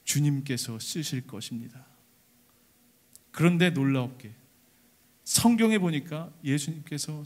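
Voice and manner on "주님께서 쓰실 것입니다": timid, trembling line. Acted. The disciples, afraid, answer the owner with trembling. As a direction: say it with fear and trembling. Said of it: "두렵고 떨리는 마음으로 한마디를 댑니다".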